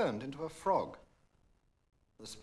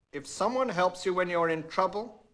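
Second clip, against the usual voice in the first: louder, higher stern father; stern king; 5 semitones higher, 7 dB louder than usual. A narrator's reading. Angry king scolding his daughter, stern and loud. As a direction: lay down the law firmly. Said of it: "grew angry and spoke sternly".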